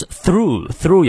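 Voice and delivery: "through" with a careful th; tongue between teeth. Shown as a demonstration. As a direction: bite the tongue lightly for the th in "through". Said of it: "咬舌". (“through”咬舌念th)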